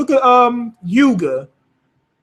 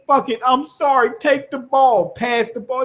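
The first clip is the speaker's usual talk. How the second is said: higher-pitched retold surrender; mock apology in a raised voice; imitated giving in; 4 semitones higher than usual. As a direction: act out handing it over apologetically.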